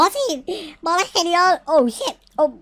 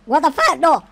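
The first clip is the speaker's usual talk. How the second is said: loud shouts rising to a high scream; panicked screaming; 7 semitones higher, 8 dB louder, slower than usual. Real, not acted. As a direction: scream helplessly as disaster hits. Disaster strikes in the game.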